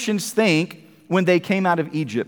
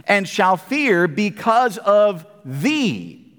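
scripture reading. Acted. Reads scripture aloud.

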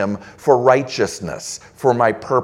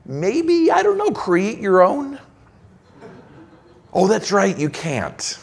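much higher, mocking sarcastic offer; sarcastic God; 6 semitones higher than usual. Preacher voicing God mocking Israel's complaint, sarcastic. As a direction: tease them with a sarcastic shrug. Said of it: "God is implying".

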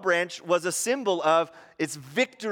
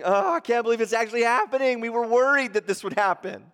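alarmed leaders; 5 semitones higher, 4 dB louder, faster than usual. Retold or imitated. Religious leaders fearing it happening.

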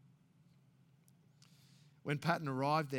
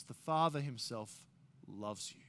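gentle repetition; 2 semitones lower than usual. Acted. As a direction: let it land tenderly. Repeated gently to disciples.

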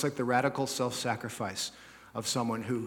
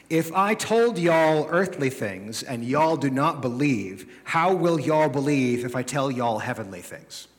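slow, louder, hammed-up Texan drawl on y'all; mock Texan reading; 4 dB louder, slower than usual. Preacher reading Jesus to the congregation in mock Texan. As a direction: read scripture like a Texan preacher. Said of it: "New American Texas Version".

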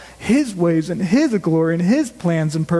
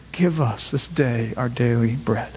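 low, measured verse reading; reflective recitation; 8 semitones lower, 3 dB quieter than usual. Shown as a demonstration. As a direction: let the familiar line sink in, lower in pitch. Verse repeated as reflective conclusion.

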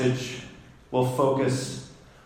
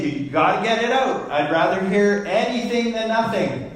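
quick, higher-pitched teacher's exhortation; urging band students; 6 semitones higher, faster than usual. Retold or imitated. Band teacher urging grade six and seven students to play, insistent. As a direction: re-enact coaxing students in a raised, hurried pitch.

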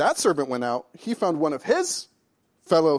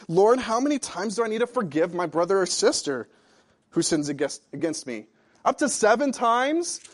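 Peter asking; 4 semitones higher, 5 dB louder than usual. Acted. Preacher voices Peter's question.

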